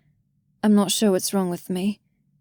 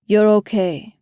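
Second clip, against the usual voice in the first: softly. A narrator's reading. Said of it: "he says softly".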